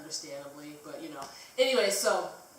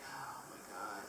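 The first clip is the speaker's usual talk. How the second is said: very low, hushed mock groan of words; much softer, dropped-down aside; muttered exasperation; 10 semitones lower, 14 dB quieter than usual. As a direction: mutter it under your breath, retold. Retold exasperation, muttered to herself.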